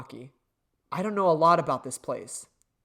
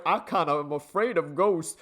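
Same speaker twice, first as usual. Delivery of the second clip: lightly voiced scaredy-cat; mock him as a timid coward; mocking impression. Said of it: "This motherfucker is literally just like".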